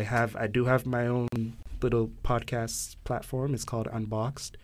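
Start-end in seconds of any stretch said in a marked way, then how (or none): 3.5-4.6 sounds a bit congested from a cold; stuffy nose. Real, not acted. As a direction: say it with a head cold. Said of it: "sorry, I have a cold".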